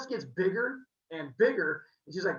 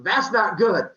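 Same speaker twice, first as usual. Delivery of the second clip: nervous; 3 semitones higher, 12 dB louder than usual. Acted. Leto facing anaconda.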